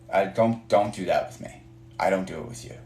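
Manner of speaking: ordinary talk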